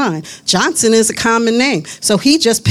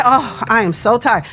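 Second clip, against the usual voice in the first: weary complaint; 4 semitones lower than usual. Shown as a demonstration. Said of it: "It's different than to say".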